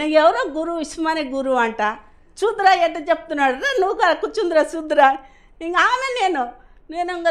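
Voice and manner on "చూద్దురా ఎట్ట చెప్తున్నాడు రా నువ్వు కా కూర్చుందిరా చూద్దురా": landlady calling. Retold or imitated. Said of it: "అని పిలిచి".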